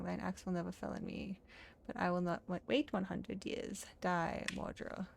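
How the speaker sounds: put-on lightly accented archaic drama; defiant tree character. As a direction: play out a solemn woodland confrontation. Voices guilty tree and cutter.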